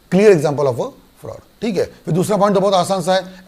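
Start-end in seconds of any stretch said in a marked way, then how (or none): 0.1-1.4 slow emphatic. Shown as a demonstration. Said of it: "teacher repeats phrase slowly, louder".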